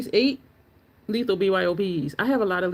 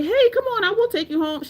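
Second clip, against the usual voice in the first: mock kind offer; 12 semitones higher than usual. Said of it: "nobody ain't say".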